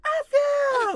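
put-on kid shouting. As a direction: yell it like an excited kid. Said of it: "So later, two days later".

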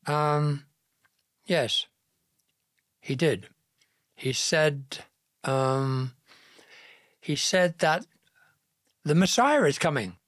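halting, with long pauses; hesitate, then push the news out; nervous gulping hesitancy. A narrator's reading. Mary reluctantly answering Joseph about the angel, nervous and halting. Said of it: "Mary gulped again".

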